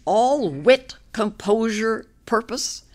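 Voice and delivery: measured, deliberate verse reading with pauses between phrases; poetry reading. A narrator's reading. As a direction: read a narrative poem aloud, line by line. Reads own poem aloud.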